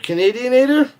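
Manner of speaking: repeating the made-up word in mock amazement; incredulous repeat. Shown as a demonstration. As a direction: toss Canadianator back as a baffled question. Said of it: "I can't even say it".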